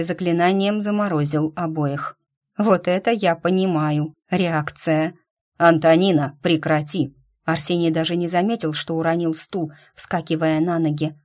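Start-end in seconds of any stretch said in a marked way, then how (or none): 5.6-7.1 stern call. Acted. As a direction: call her name loud and firm. Son stops possessed mother.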